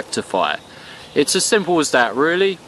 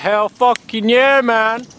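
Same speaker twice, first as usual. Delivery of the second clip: excited; 6 semitones higher than usual. Retold or imitated. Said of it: "And I'm like".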